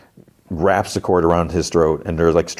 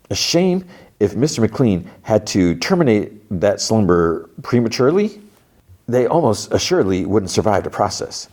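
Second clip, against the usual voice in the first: higher, oily salesman patter; snake oil salesman; 4 semitones higher than usual. Retold or imitated. Salesman delivering McLean's message, higher salesman voice. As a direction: pitch it like a sly salesman. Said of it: "So it's a snake oil salesman".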